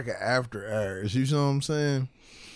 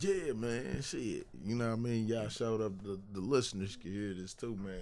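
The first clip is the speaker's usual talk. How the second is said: off mic, faint; speaking away from the microphone; far from mic; 9 dB quieter than usual. Real, not acted. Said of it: "Talk closer to".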